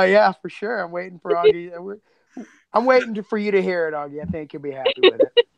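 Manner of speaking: ordinary talk, nothing marked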